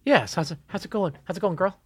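soft, flirty greeting; flirtatious. Acted. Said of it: "That sounded really flirtatious".

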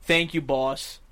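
low, drawn-out imitation; mimicking someone's lingering, low-pitched delivery; dragged out. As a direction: drag the words out as he did. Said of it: "he dragged it out".

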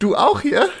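very high squeezed voice; shrinking down. Shown as a demonstration. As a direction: squeeze the voice up into a tiny high chirp. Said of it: "Sonst würde ich nur noch so drücken".

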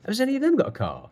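high, fast, exasperated questioning; furious insistence. Retold or imitated. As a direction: imitate an angry mentor pressing for answers. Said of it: "Glenn was furious".

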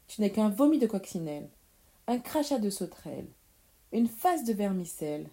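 fast rattled-off name-calling; quick, punchy witch's tirade; scolding insults. Acted. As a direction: fire off each insult briskly. Witch fires off rhyming insults.

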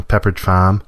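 New England accent, the F of Farm dropped. Shown as a demonstration. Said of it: "You drop the F completely".

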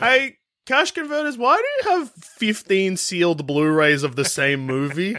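high accusing question; mock accusing customer. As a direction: call out the shop clerk. Mock questioning a pawn shop.

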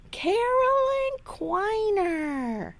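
high yell of her name. Retold or imitated. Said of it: "He yells".

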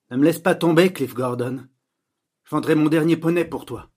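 high, loud theatrical plea; film actress imitation. Girl imitating film voices for Louis Edmond, loud melodramatic imitation. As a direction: declaim it like a dubbed film heroine. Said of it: "tu imites bien les voix".

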